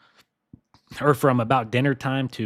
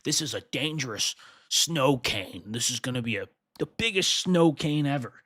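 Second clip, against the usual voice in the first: lightly voiced hyped-up forecaster, rising near the end; a hint of sensational weather-channel hype; mock AccuWeather hype. Streamer mocks AccuWeather's forecast hype with a light put-on voice. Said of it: "AccuWeather's gonna say".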